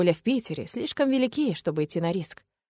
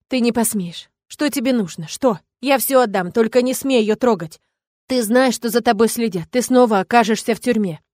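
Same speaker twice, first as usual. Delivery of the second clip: louder, higher frantic pleading; desperate plea; 3 semitones higher, 6 dB louder than usual. Acted. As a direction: beg and threaten at once. Mother pleading and threatening villain.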